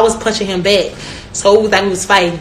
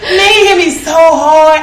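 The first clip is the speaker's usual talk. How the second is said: higher, slow, laughing complaint; 6 semitones higher, 4 dB louder, slower than usual. Real, not acted. Retelling the hit to friends, laughing. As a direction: moan it through laughter.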